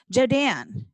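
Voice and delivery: "Jodan" tried out with emphasis on "dan"; stress on second syllable. Acted. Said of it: "emphasize the second syllable".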